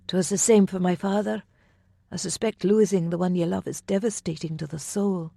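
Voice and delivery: a hint of a shy young lady; lightly voiced young woman. A narrator's reading. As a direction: gently raise the voice for her. Myra voiced in dialogue.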